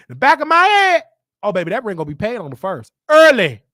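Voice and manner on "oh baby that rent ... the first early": mocking mom. Voicing mom's promise.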